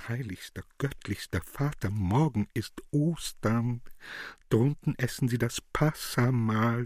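a gentle pleading voice. Acted. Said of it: "mit flehender Stimme".

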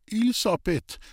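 a touch of faltering worry on "Elisabeth"; stammering. Acted. Old man stammers the girl's name in sudden worry, mildly. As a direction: falter as dread sets in. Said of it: "stammelte Hans-Peter".

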